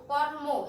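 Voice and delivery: কর্ম as "kor-mo", r clearly heard; r sounded. Shown as a demonstration. Teacher giving another example, r sounded in কর্ম. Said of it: "এখানে র উচ্চারণ হবে".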